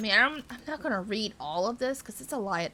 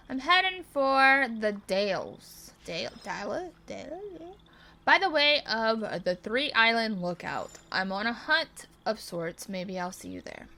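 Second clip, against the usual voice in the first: lightly voiced traveling hunter; game character voice; 3 dB louder than usual. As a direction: voice the stranger heading off.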